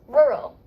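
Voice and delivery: teacher's emphatic model of "Rural"; model pronunciation. Shown as a demonstration. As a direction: say "Rural" firmly with both R sounds. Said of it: "It's two syllables".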